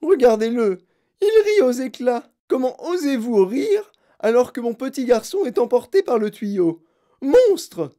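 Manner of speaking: aigu et fort, furieux; hurlé. Acted. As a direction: hurler une accusation. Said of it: "hurla-t-elle". (la mère hurle contre Wonka, furieuse)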